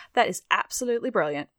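put-on a quick, lightly done British accent; a brief, self-mocking stab at British English. Host quoting McCartney in a bad British accent. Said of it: "my terrible semi-impression of a British accent".

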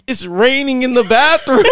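high, laughing imitation of Selena; mocking Selena. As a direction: squeak it like Selena, cracking up. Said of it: "And then Selena's like".

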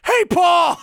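loud, high yuppie greeting; American Psycho. Retold or imitated. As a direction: shout a cheery high yuppie hello. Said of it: "You could do the American Psycho".

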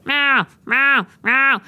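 high, loud cat meowing; imitating cat meows. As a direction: meow like a chatty cat. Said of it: "she'll just go".

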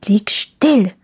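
sharp whispered hiss. A narrator's reading. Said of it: "zischte das Räubermädchen". (scharf gezischt, geflüstert)

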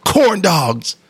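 playful hyped-up yell; mock yell. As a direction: bark it out like a coach cheering a three. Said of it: "I'd just yell".

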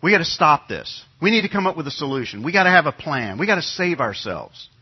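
urgent call over the chaos, imitated; rally the crowd in a mild mock yell. Someone in the panicking crowd calling for action. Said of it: "somebody yells out".

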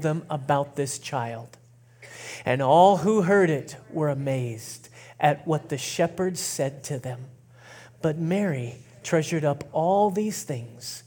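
measured scripture reading, settling down at the end; slow, intentional reading. Real, not acted. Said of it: "read it real slow and real intentionally".

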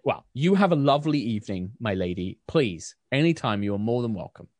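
kindly baker. Acted. Susan bids farewell.

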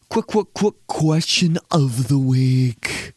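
slow, drawn-out sultry announcer read; sexy voiceover. Shown as a demonstration. Podcast host doing sexy voiceover for the segment. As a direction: stretch it like a seductive radio promo. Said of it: "some sexy voiceover like that for everything".

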